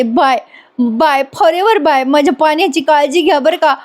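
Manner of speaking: milk the parting for drama, lightly; theatrical goodbye. Retold or imitated. Payal leaves Panya in others' care, theatrical goodbye. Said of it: "बोलणं नाटकीच वाटतं".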